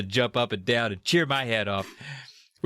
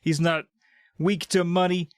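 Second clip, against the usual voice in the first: higher-pitched, lightly gushing; proud and excited; 5 semitones higher than usual. Acted. Niece and nephew about their uncle, lightly acted pride. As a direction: gush a little, pitched up. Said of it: "so excited. They're proud of Doctor D".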